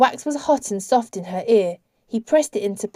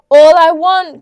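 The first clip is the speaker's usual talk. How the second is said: high, loud cry; raised-voice appeal; 9 semitones higher, 12 dB louder, slower than usual. A narrator's reading. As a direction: burst out with a loud plea. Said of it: "cried the Icarus".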